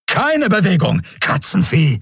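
high-pitched, hostile command; sharp, high insult-laden warning; threatening order. A narrator's reading. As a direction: threaten with a gun drawn. Guard aims gun at Keru's head.

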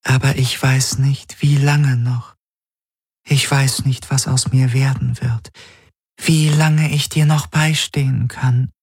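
sad. A narrator's reading. Apparition fearing she cannot stay with him, sad. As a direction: let her grow sad, in a high, fragile figure voice. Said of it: "Sie wurde traurig".

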